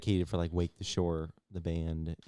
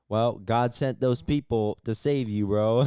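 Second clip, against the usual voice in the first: mock exasperation; 3 semitones higher, 7 dB louder, slower than usual. Mocking reply in an acted scene.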